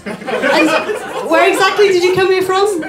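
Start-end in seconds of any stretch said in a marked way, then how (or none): 1.3-2.8 incredulous question. Retold or imitated. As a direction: demand it in disbelief. Audience member questions the traveller.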